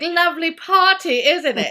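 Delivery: high, loud mock butler voice; ghostly host. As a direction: play a creepy polite ghost host.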